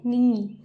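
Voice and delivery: नी pressed and held; extra pressure. Shown as a demonstration. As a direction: lean on नी with a long ee. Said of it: "ज़्यादा pressure डाल के बोला है". (नी पर ज़ोर देकर)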